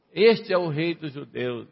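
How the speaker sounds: jeering proclamation, pointed on "Este"; ironic, offensive. Retold or imitated. Mockers labelling Jesus above his head, ironic and offensive. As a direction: sneer it as a mocking title. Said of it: "de uma forma irônica, de uma maneira ofensiva".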